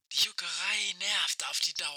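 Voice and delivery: like a faint voice over a radio; old rotary phone. Acted. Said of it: "Das war Aische".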